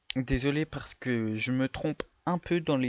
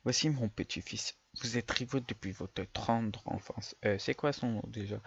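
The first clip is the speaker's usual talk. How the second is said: put-on old man voice; 2 semitones lower, 4 dB quieter than usual. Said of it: "je vais faire une voix de vieux".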